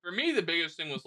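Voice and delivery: talking while chewing food; mouth full. Real, not acted. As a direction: speak through a mouthful. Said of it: "finishing your food".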